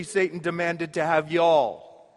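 a hint of Mississippi folksy speech. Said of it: "as they say in Mississippi".

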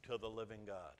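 slow, deliberate scripture quote. Retold or imitated. Pastor quoting Paul slowly to the church. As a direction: weigh every word of the verse. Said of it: "He says".

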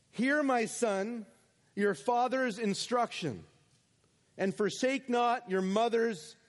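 slow, solemn reading of Proverbs; scripture reading. Acted. Preacher reading Proverbs to the congregation, slow and solemn. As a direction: read the verse like a fatherly instruction. Reads Proverbs aloud slowly.

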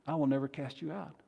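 soft, quick reassuring reply; hushed, steady promise; Jesus' reassurance. Acted. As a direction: answer the fearful sinner quietly. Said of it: "The response of Jesus".

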